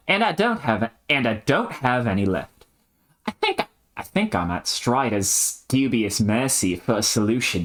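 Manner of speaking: put-on Aussie character voice; earnest retake with a Strayan twang; Australian accent. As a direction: play the line in Australian. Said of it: "Strayan, Strayan, come on".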